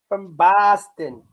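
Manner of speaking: a slow, drawn-out Boston "From Boston" with a broad ah sound; lightly imitating a Boston accent; mock Boston accent. Streamer mocks Boston friends, slow Boston accent. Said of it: "The Boston accent".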